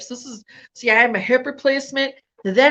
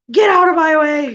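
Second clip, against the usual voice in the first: mock shout; 4 semitones higher, 4 dB louder than usual. Repeating her shouted line.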